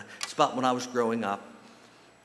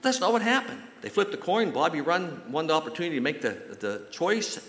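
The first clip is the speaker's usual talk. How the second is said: much higher, louder storytelling burst; excited turn; 6 semitones higher, 3 dB louder than usual. A narrator's reading. Preacher tells the congregation the twist, much higher and excited. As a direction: lift the voice for the surprise twist.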